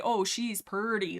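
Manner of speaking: light Southern drawl on "purdy"; slow Southern "purdy" for pretty; Southern accent. Shown as a demonstration. Explaining a character's name to viewers, light Southern accent. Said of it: "like, a Southern accent".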